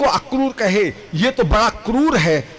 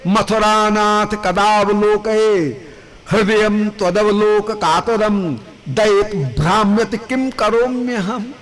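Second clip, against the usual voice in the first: slow, pleading Sanskrit verse; anguished calling; slower than usual. Acted. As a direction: call out in longing. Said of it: "व्याकुल होकर के पुकार रही हैं".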